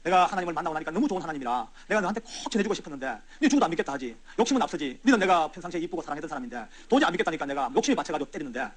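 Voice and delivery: retold weeping apology, hushed and low; tearful apology. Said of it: "이러면서 울었죠".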